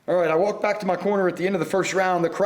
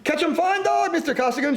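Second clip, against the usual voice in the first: high, raised shout; 9 semitones higher than usual. A narrator's reading. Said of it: "shouted the Chinese".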